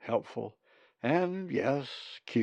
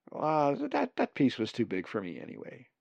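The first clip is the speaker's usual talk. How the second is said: flustered, stumbling excuse; hiding embarrassment; 3 semitones higher than usual. A narrator's reading. Colin excuses giving away meat, hiding embarrassment. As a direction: start higher, stammer, then brush it off. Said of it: "trying to hide his embarrassment".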